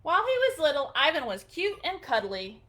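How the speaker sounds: gentle storybook reading; storybook read-aloud, gentle and clear; reading to children. Acted. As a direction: read it like a bedtime picture book. Reading picture book aloud.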